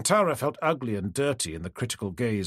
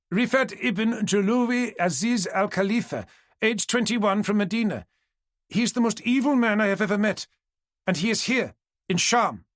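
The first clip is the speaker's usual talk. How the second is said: high, urgent and insistent; raised voice; 8 semitones higher than usual. A narrator's reading. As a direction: make her understand the danger. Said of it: "Kantara raised her voice".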